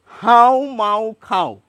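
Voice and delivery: হাউ মাউ খাও slowly through the nose, falling; slow nasal demo; nasal pronunciation. Shown as a demonstration. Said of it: "তফাৎ বুঝতে পারছেন".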